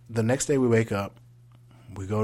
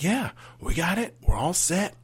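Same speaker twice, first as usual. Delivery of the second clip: sister's voice; 6 semitones higher, 4 dB louder than usual. Retold or imitated. Sister voiced reassuring him.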